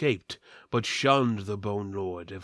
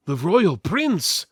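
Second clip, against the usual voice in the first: louder, slow, stunned; shocked exclamation; 7 semitones higher, 6 dB louder, slower than usual. Acted. Julius reacting to learning the prince's identity, shocked. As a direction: gasp it out in disbelief. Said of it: "Julius drew back".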